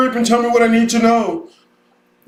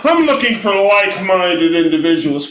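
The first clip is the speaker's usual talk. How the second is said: mock quote. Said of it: "nigga love to say that".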